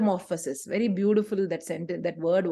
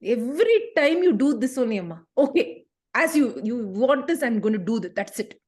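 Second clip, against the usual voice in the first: put-on grudging child. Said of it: "Prabha will be the child".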